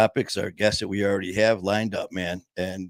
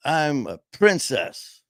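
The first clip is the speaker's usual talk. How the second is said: put-on little girl princess; 5 semitones higher, slower than usual. Little girl answers in joke.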